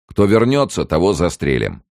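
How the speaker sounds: loud threat starting high, dropping at the end; rough order. A narrator's reading. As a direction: warn them off roughly. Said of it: "приказал грубый голос".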